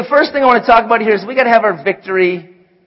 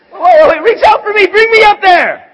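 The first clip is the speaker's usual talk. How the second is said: excited call upward; 11 semitones higher than usual. Pretend. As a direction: call up after him, half joking. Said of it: "You're like".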